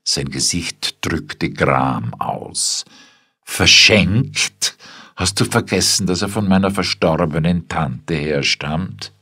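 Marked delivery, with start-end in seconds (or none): 3.4-9.1 shocked. A narrator's reading. Husband shocked at gift.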